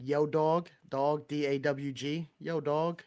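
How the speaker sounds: straight Long Island vowels on "dog"; Long Island accent. Shown as a demonstration. Showing listeners how they say "dog", Long Island accent. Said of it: "it's straight Long Island".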